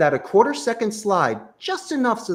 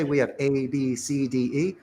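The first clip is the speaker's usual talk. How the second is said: rushed flat list; 3 semitones lower, 4 dB quieter than usual. Shown as a demonstration. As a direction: run through the list low and soft, without pausing. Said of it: "Don't say".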